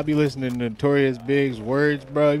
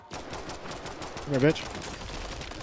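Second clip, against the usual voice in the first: whispering; 2 semitones higher, 6 dB quieter, much slower than usual. Real, not acted. Sneaking up on an enemy.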